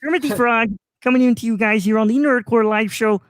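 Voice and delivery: lightly voiced Kermit the Frog; a hint of Kermit greeting the show; light Kermit voice for the audience; Kermit impression. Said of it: "I'll do my Kermit impression".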